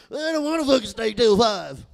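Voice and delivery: high, loud redneck refusal; Jacob's redneck whine. Retold or imitated. Coworker refusing to stay till five, loud redneck whine. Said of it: "like a shitty redneck juggalo".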